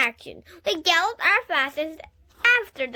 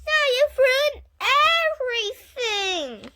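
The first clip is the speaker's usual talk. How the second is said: high loud angry complaint; furious; 12 semitones higher, 7 dB louder than usual. A narrator's reading. Lucille angrily scolding the girls, high and loud. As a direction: scold them for ruining it.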